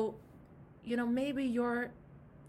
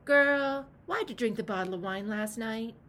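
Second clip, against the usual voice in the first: confronting the inner addict; 5 dB louder than usual. Acted. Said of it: "I've had to do this with my addict".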